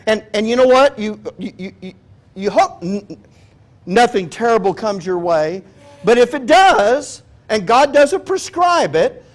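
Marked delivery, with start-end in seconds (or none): 6.0-9.2 raised, driving preacher's voice; full-force preaching. Real, not acted. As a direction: preach it out to the congregation.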